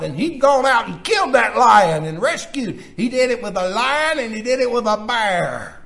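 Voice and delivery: punchy, emphatic pulpit storytelling; forceful preaching. Acted. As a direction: hammer the key words like a preacher.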